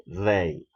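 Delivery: "they" dicho aislado y fuerte, para que lo repitan; pronunciación modelo. Shown as a demonstration. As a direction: enunciate "they" firmly for students to repeat. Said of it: "Repeat after me". ("they" pronunciado con firmeza, como modelo)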